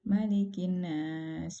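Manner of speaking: Malikin nas with the nasal ghunnah not held; rushed ghunnah demo. Shown as a demonstration. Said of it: "tidak menahan gunnahnya".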